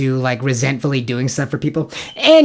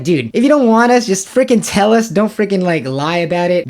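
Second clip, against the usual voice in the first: higher-pitched, acted-out frustration; exasperated retort; 5 semitones higher, 3 dB louder than usual. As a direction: plead for straight honesty, fed up. Acted frustrated retort to restaurant staff.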